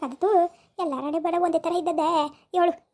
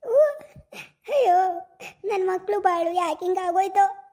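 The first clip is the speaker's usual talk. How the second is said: higher, plaintive acted mourning; grieving lament; 4 semitones higher than usual. Mother mourning her young daughter's death, lamenting. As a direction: lament with a pained cry on the sighs.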